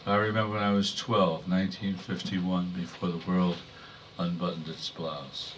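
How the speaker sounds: measured, restrained poem delivery; poetry reading. Acted. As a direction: read verse to an audience, pausing between phrases. Reads poem about mother.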